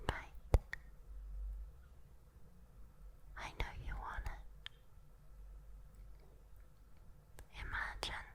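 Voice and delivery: very soft whisper with long pauses; lulling whisper. Acted. Demon at the bedside lulling a human, whispering. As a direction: whisper them gently towards sleep.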